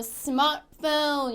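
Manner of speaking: 스마트폰 as "SMAR-fone", T dropped; English pronunciation. Shown as a demonstration. Teacher models the final answer, English pronunciation. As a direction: draw 스마트폰 into two English beats without "teu". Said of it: "이렇게 발음을 해주실 수".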